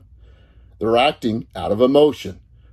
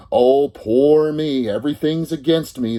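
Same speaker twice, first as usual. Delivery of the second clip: mock self-pity; 5 semitones higher, 3 dB louder, slower than usual. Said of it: "poor little innocent you".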